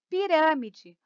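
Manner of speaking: teacher's clear Pirâmide, stressed on the third-from-last syllable, râ; stress on antepenultimate syllable. Shown as a demonstration. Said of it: "a sílaba tônica aqui é a antepenúltima".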